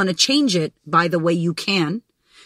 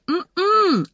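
sharp high no-no hum; high refusing hum; 11 semitones higher than usual. Retold or imitated. Refusing her own brain's urge, high nasal mm-mm. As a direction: shut it down with a closed-mouth no.

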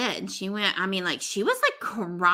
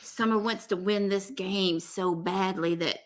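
mock indignation in a Southern Georgia accent; put-on Georgia accent. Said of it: "I say it as if she's, like, from Georgia".

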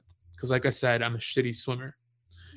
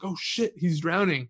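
higher, startled realization; sudden realization; 5 semitones higher, slower than usual. Retold or imitated. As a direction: catch on in a sudden jolt. Friend suddenly realizes the danger.

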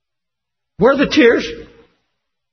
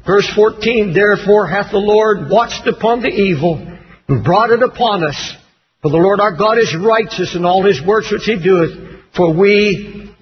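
low, measured scripture reading; 4 semitones lower than usual. Acted. Preacher reading Daniel's prayer to congregation, solemn low reading.

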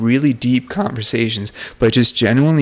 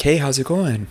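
casual greeting; 4 semitones higher than usual. Retold or imitated. Casual greeting to a coworker, retold.

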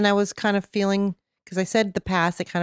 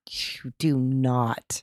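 mock outrage; 8 semitones lower, 5 dB quieter, much slower than usual. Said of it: "How dare you?".

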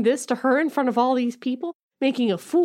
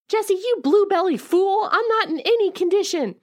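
mock indignant; 8 semitones higher than usual. Heroine insults Jesse.

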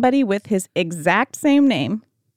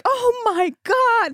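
panicked mom; 13 semitones higher, slower than usual. Retold or imitated. Panicked mom in retold story.

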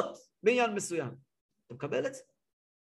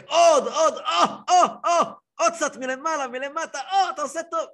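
high, loud moans of more with laughs; mock blissful yell; 8 semitones higher, 5 dB louder than usual. Sauna guest moaning to the attendant for more, high and laughing. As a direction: ham up a sauna-goer begging for more. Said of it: "אתה צועק".

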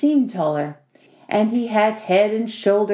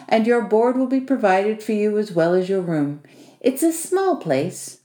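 lightly voiced host, approving and businesslike; a hint of the bossy host making an offer; Vasily. Host offering his spare room to the newcomer, lightly businesslike.

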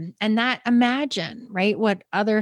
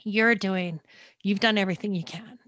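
tearful quote; 2 semitones higher than usual. Retold or imitated. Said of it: "I just remember her saying".

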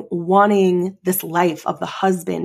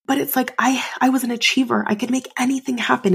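getting emotional; 6 semitones higher than usual. Real, not acted. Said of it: "I'm getting emotional saying that".

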